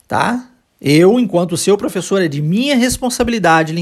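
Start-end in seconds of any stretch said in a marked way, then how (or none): none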